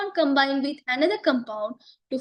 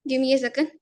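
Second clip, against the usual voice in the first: losing voice, hoarse and strained. Real, not acted. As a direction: talk through a failing voice. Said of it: "I'm losing my voice".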